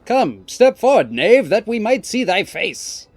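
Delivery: high, loud, slow mock-archaic challenge; theatrical ninja. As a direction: declaim it like a stage ninja. Ninja hammily challenges intruder.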